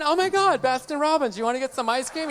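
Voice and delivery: light mocking girly voice; chirpy fake-innocent offer; mock sweet girlfriend. Mocking the girlfriend as sweetly offering ice cream. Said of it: "sitting there going".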